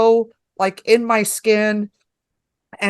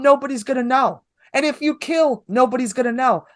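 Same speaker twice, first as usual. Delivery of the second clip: higher-pitched, retold scolding reassurance; exasperated pep talk; 4 semitones higher than usual. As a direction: talk some sense into a panicking comic. Retells pep-talk scolding of nervous comic.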